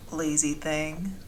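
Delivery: a soft slow joke at the dragon; joking. Acted. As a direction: tease her fondly, taking your time. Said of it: "I joke".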